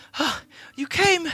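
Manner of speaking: put-on eagerly excited kid voice. Voicing a kid who greets an approaching player: eager kid character. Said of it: "just waiting for you eagerly".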